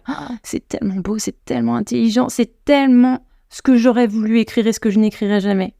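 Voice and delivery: imagined envious admiration; awestruck gushing. Acted. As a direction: swoon mildly over someone else's brilliance. Imagines gushing over another translation.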